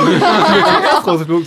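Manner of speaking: spluttering with laughter while admitting defeat; laughing. Real, not acted. Admits losing first, laughing. (lachend, laut und langsam)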